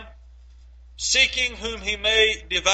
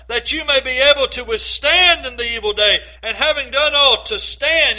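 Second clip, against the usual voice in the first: louder, ringing proclamation of the verse; forceful scripture reading; 3 dB louder than usual. Acted. Preacher charging the church to take up armor, forceful. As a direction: declare the armor like a call to arms. Reads Ephesians with power.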